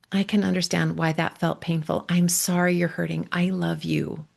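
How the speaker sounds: tender connection. Shown as a demonstration. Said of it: "offer connection".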